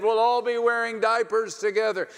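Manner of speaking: high, loud and bubbling; excited. Acted. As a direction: tell it like a punchline, high and loud. Laughing retelling of Abraham.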